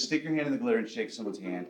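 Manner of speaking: teacher instruction. Retold or imitated. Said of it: "She says".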